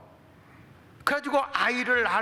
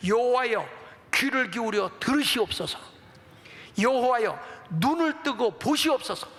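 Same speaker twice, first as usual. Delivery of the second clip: raised, appealing prayer voice; praying king, imitated; 3 semitones higher than usual. Hezekiah laying the letter before God, pleading. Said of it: "하나님 앞에 기도했어요".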